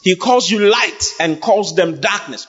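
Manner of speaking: preaching. Real, not acted. Preaches on a read verse at raised pitch.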